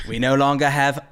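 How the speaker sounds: lightly imitated British accent; Michael Caine impression. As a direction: give it a touch of mock British actor. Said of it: "would he be like".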